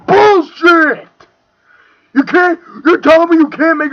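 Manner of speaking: indignant yell; angry outburst. Real, not acted. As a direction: bark it out in disbelief. Angry rebuttal in rant.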